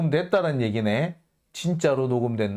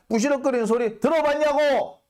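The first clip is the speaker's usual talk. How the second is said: high, indignant demand; did you even listen, shouted in disbelief; exasperated rant; 9 semitones higher than usual. Real, not acted. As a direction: pitch jumps up in outrage. Ranting at reporters.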